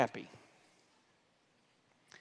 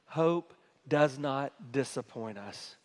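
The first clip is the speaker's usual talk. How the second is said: slow recitation; 3 semitones lower, slower than usual. Shown as a demonstration. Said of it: "Let's say it again".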